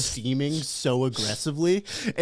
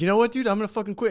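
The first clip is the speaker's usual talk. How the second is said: higher, fed-up declaration; mock quitting outburst; 6 semitones higher, much faster than usual. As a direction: act out an employee snapping. Acts out employee quitting.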